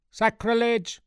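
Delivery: high, loud indignant cry; outraged scream. A narrator's reading. Pew jumper to a stranger in the cathedral, screaming in outrage. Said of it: "screamed a well-known pew jumper".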